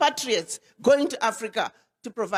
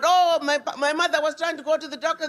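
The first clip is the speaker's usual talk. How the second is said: lightly imitated complaint, a little higher; mock complaining; 3 semitones higher than usual. Diaspora complaining about the doctor back home, mildly mocked complaint. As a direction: mildly mimic someone griping. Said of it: "when diaspora start complaining about".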